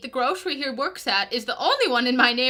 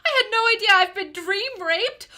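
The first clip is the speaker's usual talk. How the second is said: shocked; 6 semitones higher, 5 dB louder than usual. Acted. Plaintiff shocked gasps.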